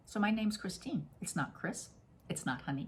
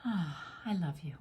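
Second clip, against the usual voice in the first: tender self-love; 3 dB quieter than usual. Shown as a demonstration. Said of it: "and then go".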